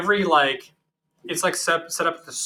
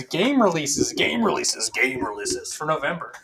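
a hint of a radio DJ announcing. Shown as a demonstration. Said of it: "I wanted to sound like a radio D J".

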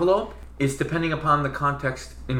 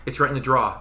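New Jersey "draw" for drawer; lightly imitated New Jersey dad; touch of New Jersey, drawer without its ending; New Jersey accent; 3 semitones lower, faster than usual. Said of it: "totally New Jersey".

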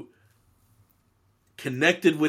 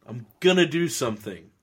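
emphatic challenge; 4 semitones higher, 3 dB louder than usual. Acted. Acting out Jesus confronting unbelief.

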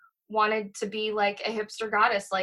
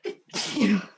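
sneezing. Real, not acted. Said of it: "I'm gonna sneeze".

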